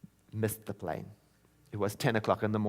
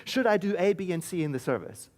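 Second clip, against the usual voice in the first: reading a text; 7 semitones higher, 4 dB louder than usual. Retold or imitated. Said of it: "he texted me".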